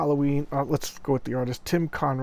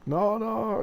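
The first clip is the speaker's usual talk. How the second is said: mock panic; 10 semitones higher, 4 dB louder than usual. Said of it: "He's freaking out".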